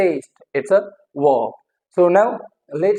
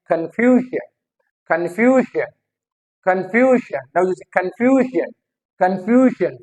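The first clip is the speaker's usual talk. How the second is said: "confusion" as kun-FYU-zhun; stress on FYU; much slower than usual. Shown as a demonstration. Teacher drilling the stress rule, stressed on FYU. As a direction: stretch and stress the middle of "confusion". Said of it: "फ्यू पे".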